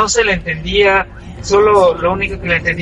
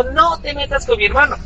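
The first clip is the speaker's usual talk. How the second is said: higher pitched cry at the cousin; retold shout; 6 semitones higher than usual. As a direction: shout it high to protect his brother. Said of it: "mi hermano solo gritó".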